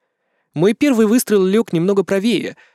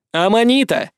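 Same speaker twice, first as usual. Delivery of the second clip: raised voice; 6 semitones higher than usual. A narrator's reading. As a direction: call her over ear protectors. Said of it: "Я повысил голос". (громко окликнул)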